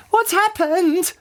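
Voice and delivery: very high, drawn-out mock scream; screamed in shock. A narrator's reading. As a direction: scream it slowly, without full volume. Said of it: "screamed Missus Twit".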